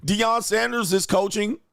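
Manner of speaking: mock ditzy voice, high and slow; hammed-up clueless drunk girl; mocking the drunk friend. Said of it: "And her dumb ass".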